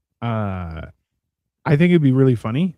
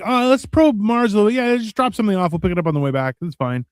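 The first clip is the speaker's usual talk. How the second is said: casual alien voice; 5 semitones higher, faster than usual. Retold or imitated. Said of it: "was like".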